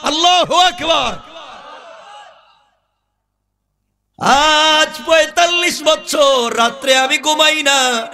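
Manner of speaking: high, sustained sermon chant; full-force preaching. Acted. Preacher voicing the youth's secret devotion, high impassioned chant. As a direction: proclaim it high, stretching the last words.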